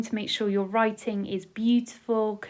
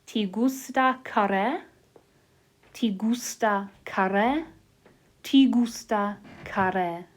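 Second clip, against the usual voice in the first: slow repeat-after-me; slower than usual. Shown as a demonstration. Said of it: "we're gonna say it out loud to ourselves".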